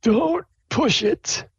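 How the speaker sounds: high, slow dean warning; slow, high-pitched stern warning. Acted. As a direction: warn them slowly, don't push your luck. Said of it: "dean's like".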